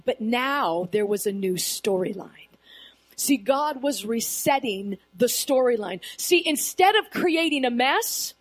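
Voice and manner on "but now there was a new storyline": hushed, whispered line; breathy dramatic whisper; whispered reveal. Acted. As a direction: lean in and whisper it.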